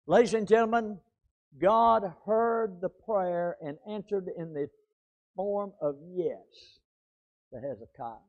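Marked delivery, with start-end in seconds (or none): 1.6-8.2 fading hush. Acted. Closing point, fading.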